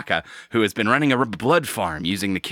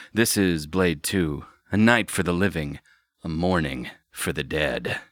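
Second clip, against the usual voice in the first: noir detective; 2 semitones lower than usual. Acted. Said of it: "You have to do it in a noir voice".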